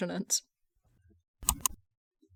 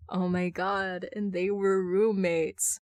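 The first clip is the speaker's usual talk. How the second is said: plain reading voice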